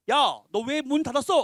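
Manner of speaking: drawn-out mock-angry confrontation. Locked-in man confronts whoever shut the door, mildly angry. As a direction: act out a mild, slow telling-off. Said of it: "막 화를 내야죠".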